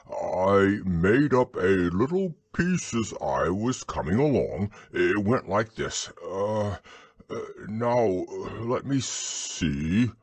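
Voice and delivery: slow down into drawn-out uhs; bumbling, thoughtful bear voice; hesitant Pooh. Acted. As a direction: bear searching his memory. Pooh's hesitant voice in story.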